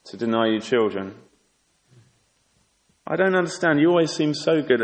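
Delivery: a hint of fake concern; mock innocent taunt. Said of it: "Or Peninnah saying".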